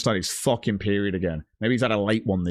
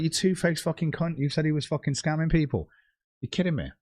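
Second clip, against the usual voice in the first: imagined rant; 5 semitones higher than usual. Retold or imitated. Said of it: "It's like".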